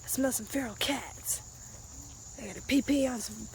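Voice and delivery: lightly voiced dog, low and soft; voicing the dog. Owner lightly voicing her dog sniffing the bushes.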